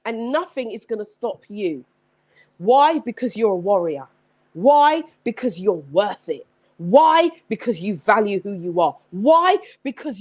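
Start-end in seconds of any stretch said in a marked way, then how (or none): 2.6-3.0 loud call. Acted. Call and response preaching. 4.5-5.0 loud call. Acted. Call and response preaching. 6.8-7.3 loud call. Acted. Call and response preaching. 9.1-9.6 loud call. Acted. Call and response preaching.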